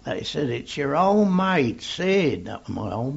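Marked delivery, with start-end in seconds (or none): 0.5-2.5 higher-pitched calling voice; mild raised shout of identification; retold shout back. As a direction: imitate a mate calling back. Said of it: "Somebody shouted back".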